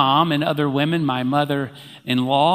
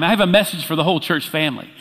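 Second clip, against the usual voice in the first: ordinary talk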